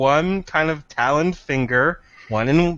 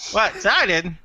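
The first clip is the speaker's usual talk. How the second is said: beak creature voice; 6 semitones higher than usual. Acted. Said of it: "I'm pretending it's a beak and talking".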